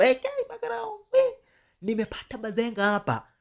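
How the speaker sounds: high, loud, urgent tip-off to police; excited phone report. Acted. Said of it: "Akiongea tu hivyo kwa simu".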